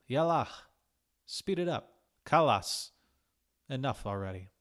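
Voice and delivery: playful urging. A narrator's reading. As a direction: chivvy a friend along. Playful Arabic bossing.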